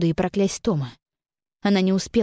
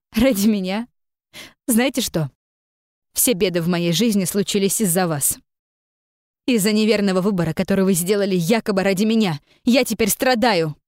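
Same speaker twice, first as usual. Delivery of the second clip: raised, heated outcry, slowing at the end; indignant shout; 2 semitones higher than usual. A narrator's reading. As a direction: cry out in bitter indignation. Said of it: "Возмущённо прокричала Джин". (возмущённый крик)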